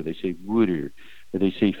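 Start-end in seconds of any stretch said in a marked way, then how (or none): 0.4-0.9 Philly accent. Shown as a demonstration. Philly accent as locals say water. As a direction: say "wooder" like a Philadelphian. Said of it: "instead of saying water".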